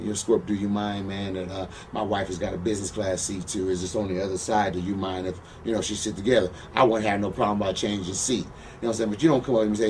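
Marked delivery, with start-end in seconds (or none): 0.0-6.5 softer, courteous mock ask; pretend polite request. The man asking him nicely for the seat, soft and polite. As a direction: show how he should have asked, politely and gently. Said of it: "you can come up and you can ask me".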